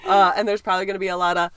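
stuffy blocked-nose voice; nasal voice. Real, not acted. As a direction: speak with a congested nose. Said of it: "I sound very nasal".

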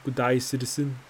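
rote, dutiful guard greeting; well-rehearsed. Acted. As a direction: say it like a line said a thousand times. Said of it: "in a well-rehearsed manner".

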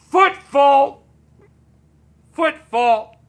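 high-pitched imitation of yelling; mock distant yell. Retelling a husband heckling tennis from upstairs, mock yelling. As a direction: call it out high, like a pretend yell from afar.

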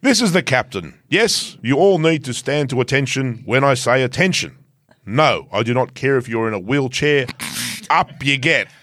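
lightly voiced pompous captain reading orders; mock captain. Reading the rider's team memo to listeners as a pompous captain. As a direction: read the memo as a stiff self-important captain. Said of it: "Sean Connery doing Russian".

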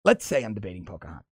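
a hint of Trump, rattled off quickly; imitating Trump. Host retries Trump's line to sound like him, lightly imitating. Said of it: "How does he?".

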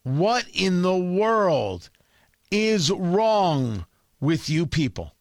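slow, incredulous scolding; exasperated. Real, not acted. Host berating Republicans on air, slow disbelieving exasperation. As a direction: stretch it out like you can't believe them.

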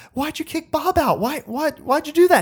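high, whiny pleading; hammed-up high family protest; mock whiny family. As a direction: whine it in a high voice. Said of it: "his family's just like".

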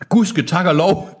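high, slow gasp of relief; hammed-up relieved exclamation. A narrator's reading. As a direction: voice Helen's relief, drawn out. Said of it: "gispede Helen".

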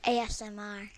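chewing while talking. Real, not acted. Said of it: "Quit chewing in the mic".

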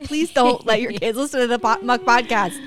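playful horrified plea; mock pleading. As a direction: beg her half-jokingly. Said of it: "I said".

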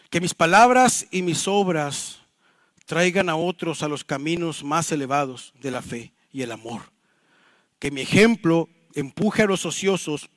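slow, measured recitation with long pauses; solemn prayer reading. Real, not acted. Pastor reading a Puritan's prayer to the congregation, solemn recitation. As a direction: read each phrase deliberately, letting it settle.

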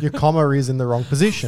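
commanding manager barking corrections; bossy boss voice. Pretend. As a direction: order the engineer around. Boss ordering engineer around.

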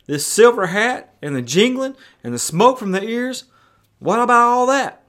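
high, exasperated questioning; freaking out. Retold or imitated. Friend challenging the father's belief, flustered and incredulous. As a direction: imitate a baffled man listing his objections. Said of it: "Barney starts freaking out".

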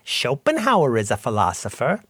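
imitated Monty Python American accent; generic American accent. Podcaster quoting Eric Idle's restaurant scene, mock American accent. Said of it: "Monty Python's American accents".

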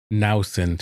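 "Nausen" with a NOW sound in front; mispronounced name. Retold or imitated. Reading out the misspelt name on the card, mispronounced. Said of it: "that's how people pronounce it".

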